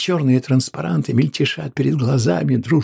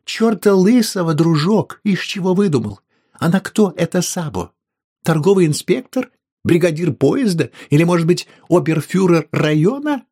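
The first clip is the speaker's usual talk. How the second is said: high, loud indignant questions; angry wife; 7 semitones higher, 5 dB louder than usual. A narrator's reading. Wife mocking Mrs Sabo's importance, loud angry questions. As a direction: pile on the scorn. Wife angrily refuses husband.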